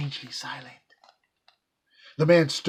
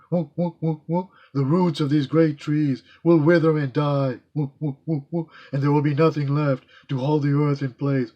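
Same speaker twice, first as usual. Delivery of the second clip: chattering monkey; 5 dB louder than usual. Acted. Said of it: "They chattered".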